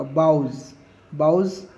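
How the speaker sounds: बाउज said as "bauz", rhyming with काउज; rhymes with cows. Shown as a demonstration. Teacher showing students that बाउज rhymes with काउज, said clearly "bauz". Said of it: "pronunciation काउज जैसा होगा".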